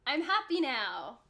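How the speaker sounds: slow, contented first-glass glow; happily tipsy. Acted. Drinker after a first glass of wine, happily tipsy. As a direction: stretch it out, mildly tipsy. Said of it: "that first glass of wine".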